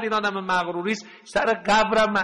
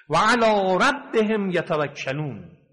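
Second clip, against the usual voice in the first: Quranic recitation; 2 semitones higher, slower than usual. Acted. Quran verse recited in sermon.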